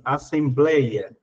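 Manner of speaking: assembleia said slowly and low, stressing the lei; drawn-out word. Shown as a demonstration. Teacher showing students the stress, slowly. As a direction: stretch assembleia to show the stressed syllable. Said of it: "esse ei ficou dentro das paroxítonas".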